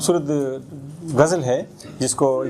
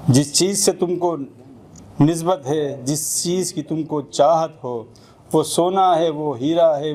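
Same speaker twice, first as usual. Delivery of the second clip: measured Urdu ghazal recital; spoken verse, falling at each couplet's close; poetry recitation. Acted. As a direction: recite in couplets, pausing after each line.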